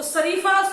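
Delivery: शरीफा with an 's' at the start, sareefa; hiss-free plain 's' opening शरीफा in place of 'sh'; mispronounced s for sh. Shown as a demonstration. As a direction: say शरीफा wrongly as sa-ree-faa. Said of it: "मतलब ये गलत word है".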